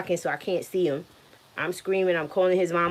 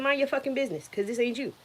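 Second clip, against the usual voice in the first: much higher, snapping at the nurse; retold snapping back; 8 semitones higher than usual. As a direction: tell the nurse off, sharp. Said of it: "I said".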